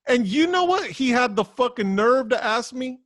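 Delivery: loud, high, heated rant; real exasperated shouting rant. Real, not acted. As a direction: blow up about the same guy. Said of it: "out of breath from ranting".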